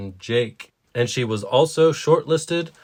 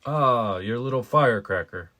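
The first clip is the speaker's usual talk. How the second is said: cafe man's fond reply. Acted. Second reader voices Graham.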